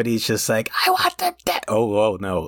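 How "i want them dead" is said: very high, fierce, screechy little voice. Recalling a fierce little gingerbread guy's voice, in a high screechy voice. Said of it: "I remember his voice being high and screechy, so apologies for what's about to happen on the microphone here".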